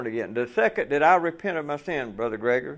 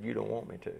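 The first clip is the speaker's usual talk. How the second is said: loving, kind; 13 dB quieter than usual. Retold or imitated. Preacher voicing God gently answering his weeping prayer, soft and kind. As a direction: let it fall soft and loving, like a patient father. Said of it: "In his loving, kind way".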